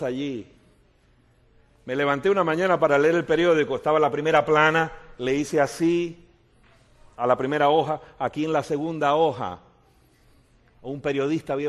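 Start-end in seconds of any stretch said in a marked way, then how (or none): 1.8-9.6 excited telling. Real, not acted. Excited telling of newspaper story.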